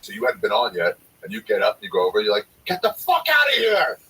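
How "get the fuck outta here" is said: high, loud kick-out yell; imitated screaming. Comic screaming at complaining customers. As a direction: scream them out the door. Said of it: "you start screaming at him".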